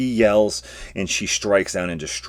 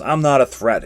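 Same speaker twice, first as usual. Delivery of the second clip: high, loud insistent cry; yells; 7 semitones higher, 6 dB louder than usual. Acted. Geyer yells at attacking Krishish, high and loud. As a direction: shout it as you block the blow. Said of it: "with her hand and yells".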